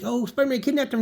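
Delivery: lightly voiced distraught girlfriend; Gwen's voice.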